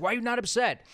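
retold plea to a sick father; exasperated plea to dad. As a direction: beg him to make sense of it.

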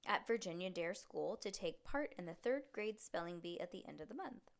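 expressive read-aloud with lively dialogue; story narration. Acted. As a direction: read a chapter book to a child. Reads story aloud to child.

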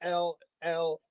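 spelled-out emphatic no. Real, not acted. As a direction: spell it out then shout the no. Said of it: "shall I spell it out".

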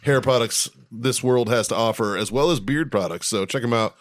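podcast ad read; advertiser mode. Acted. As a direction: slip into a sponsor plug voice. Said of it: "I just flipped into fucking advertiser mode".

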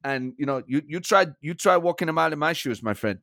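irritated German manager impression; comic, indignant football boss; Thomas Frank. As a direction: bristle at the interviewer in German-accented English. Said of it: "Thomas Frank, it's been a pleasure".

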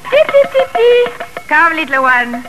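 high sing-song chicken call. Acted. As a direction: call the hens to feed, high. Feeding the chickens, calling them.

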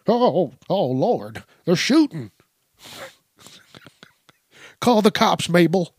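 put-on high, frantic old woman voice, hushed on "Call the cops"; hammed-up granny in a panic; elderly neighbor begging Mabel to phone the police; panicky old lady. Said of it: "old people's windows".

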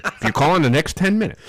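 excited TV pitchman voice; infomercial pitch. Retold or imitated. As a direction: sell it like a late-night ad. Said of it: "That's what they always do on T V".

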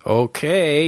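drawn-out, reluctant okay; stretched, unsure retold reply; hesitant. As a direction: imitate someone agreeing very hesitantly. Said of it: "very hesitant at first".

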